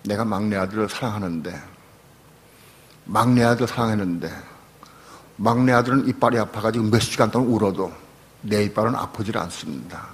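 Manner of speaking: earnest prayer to God; retold prayer. Pastor retelling his night prayer, earnest prayer. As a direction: confess plainly to God. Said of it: "제가 그렇게 기도했어요".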